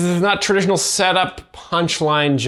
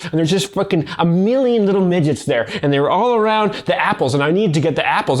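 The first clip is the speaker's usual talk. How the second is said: hammed-up storytelling; 2 semitones higher, faster than usual. Shown as a demonstration. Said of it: "but if I were to say".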